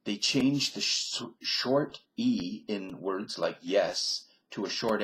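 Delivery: Midwestern American accent. Shown as a demonstration. I better switch my accent.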